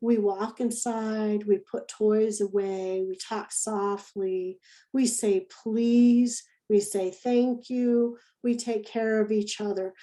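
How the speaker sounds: slow, deliberate reading of the chart; slow rule reading. Shown as a demonstration. Teacher reading the rules chart to preschoolers. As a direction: read each rule slowly for little ones. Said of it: "here's a rules chart we had".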